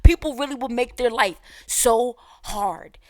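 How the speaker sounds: loud, high-pitched exasperated plea; exasperated outburst. Real, not acted. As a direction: shout it out in disbelief at the fuss. Exasperated at the driver's overreaction.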